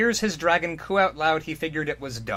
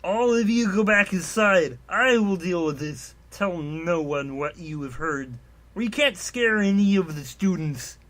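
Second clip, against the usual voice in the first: higher, slower, formal; lightly voiced commanding Shogred; 5 semitones higher, 3 dB louder than usual. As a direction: give orders like a stern leader. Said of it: "he stated".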